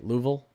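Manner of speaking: Louisville as two syllables, LOO-vul, questioning; Kentucky pronunciation. Shown as a demonstration. Streamer asking chat if it's right, Kentucky pronunciation. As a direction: check it: Louisville said "Loovul". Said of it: "I think that's what Kentucky".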